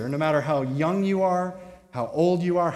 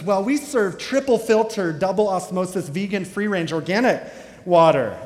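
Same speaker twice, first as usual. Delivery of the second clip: a touch of pompous barista; snooty barista; 3 semitones higher, 3 dB louder than usual. Retold or imitated. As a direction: reel off the fancy list haughtily. Barista's snooty menu list.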